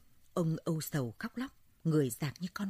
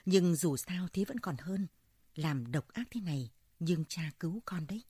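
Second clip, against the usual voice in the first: weeping father. Acted. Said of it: "Ông khóc ròng ròng, khóc như tầm như tã".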